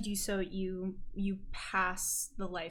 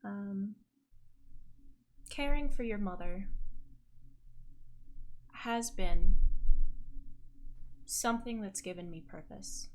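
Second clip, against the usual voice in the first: hesitant. Acted. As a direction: feel your way gently through it, pausing between phrases. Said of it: "kind of hesitantly and says".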